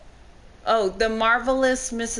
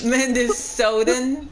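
slow, stretched-out question; mock disbelief; 2 semitones higher than usual. Real, not acted. Friend mocks the label for their accent, incredulous. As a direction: draw the word out as if it were absurd.

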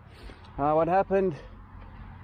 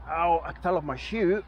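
tripping and falling; 4 dB quieter than usual. Real, not acted. Pain after falling off bike.

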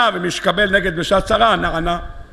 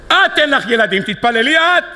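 higher-pitched acted comeback; indignant retort; 5 semitones higher than usual. Jacob throws the duty back at Rachel, acted indignant retort. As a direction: turn it back on her, pitch jumping up.

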